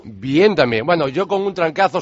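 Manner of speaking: stuffy nose from a cold; blocked-nose nasal voice. Real, not acted. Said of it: "se nota la voz gangosa".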